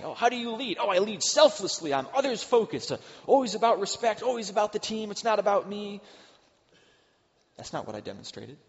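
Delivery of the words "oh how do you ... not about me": high, louder self-satisfied boast; smug self-praise. Pretend. Preacher mocking his own boasting, high and smug. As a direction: preen about your own humble leadership.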